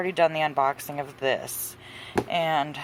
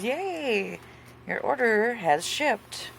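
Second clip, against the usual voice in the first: high-pitched, drawn-out announcement of good news; mock cheer; 7 semitones higher, much slower than usual. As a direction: read it like a perky shipping email. Reading out cheery shipping email.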